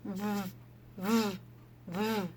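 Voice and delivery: buzzing v sounds through teeth; letter sound v. Shown as a demonstration. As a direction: buzz "V" with teeth on the lip. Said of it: "He says".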